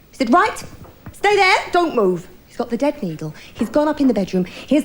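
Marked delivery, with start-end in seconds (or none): 0.3-2.3 husband voice. Retold or imitated. Husband staging his reveal.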